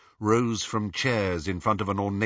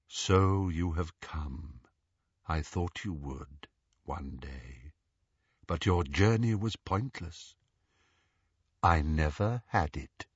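put-on frail old man; 6 semitones lower, 5 dB quieter than usual. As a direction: breathe it out like a dying prisoner. Frail prisoner speaks to Voldemort.

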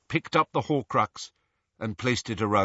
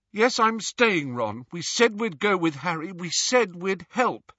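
anguished; 7 semitones higher than usual. Acted. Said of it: "she looked anguished".

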